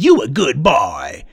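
mock praise. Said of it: "Nobody said".

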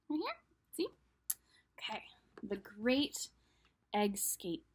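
soft whispered title read. Real, not acted. Whispering the book title as she shows the cover. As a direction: hush and reveal the title.

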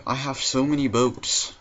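normal talking voice

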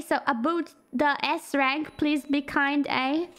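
pleading in a put-on Canadian accent; mock Canadian accent. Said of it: "How to do Canadian accent?".

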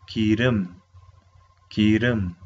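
기름 ending on a closed-mouth m; closed-lip final sound. Shown as a demonstration. Teacher repeats a new word for students, closed-lip ending on 기름. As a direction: say 기름, closing the lips on the last sound. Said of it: "cerrando la boca".

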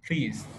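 "Please" with a puff of air on the P; teacher's model "Please", aspirated P. Shown as a demonstration. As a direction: release the P of "Please" with breath. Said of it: "Âm P là âm bật hơi nữa".

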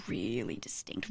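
hushed, breathy whisper on really distinct; secretive whispered aside; whispered emphasis. Real, not acted. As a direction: drop to a whisper to stress the point. Stressing how distinct the accent is.

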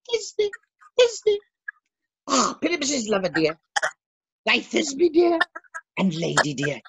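high squeaky falsetto lady; monstrous little voice. Acted. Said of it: "I'll speak in a monstrous little voice".

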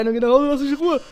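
sweet menace that winds down; the star unmasks himself, sugary then cool; diva robot reveal, fading down. Acted. Mettaton reveals he is the monster.

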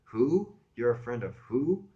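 high, loud, incredulous woman; near yelling. Acted. Woman challenges caller about his friend, nearly yelling. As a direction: snap the question at an unknown caller. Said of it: "She was damn near yelling at me".

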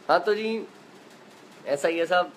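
ordinary delivery

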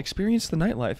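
upbeat TV ad pitch; infomercial. Pretend. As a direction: sell it like a late-night commercial. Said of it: "I'm gonna read this like an infomercial".

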